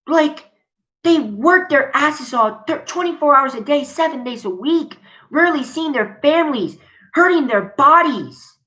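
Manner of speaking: high-pitched, heated outburst at the company; real exasperated rant; livid ranting. Real, not acted. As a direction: let the outrage spill out, pitch climbing. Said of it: "I'm just livid".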